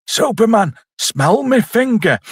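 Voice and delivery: high-pitched, drawn-out taunt; taunting villain. Acted. Villain pestering Superman with his finger, mock taunt. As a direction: call it out high, stretching the words. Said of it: "Is it like".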